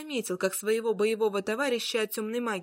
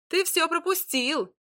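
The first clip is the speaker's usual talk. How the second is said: higher, slow happy announcement; joyful; 8 semitones higher, 4 dB louder than usual. Acted. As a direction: gleefully tell the wizard. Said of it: "радостно сказал колдуну Змеяр".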